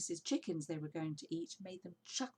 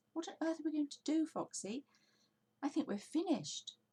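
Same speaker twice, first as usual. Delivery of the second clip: higher, fast anxious plea; despairing; 10 semitones higher than usual. A narrator's reading. Badger asks Foxy what to do, fast and despairing. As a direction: panic about the end.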